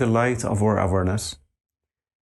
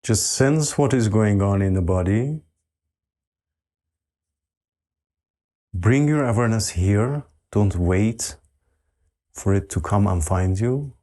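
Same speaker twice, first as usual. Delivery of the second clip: unhurried meditation voice, settling lower with long pauses; guided meditation; 6 semitones lower than usual. Real, not acted. Teacher asking meditators to relax the whole body, guided meditation. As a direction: guide them gently into stillness, letting pitch sink.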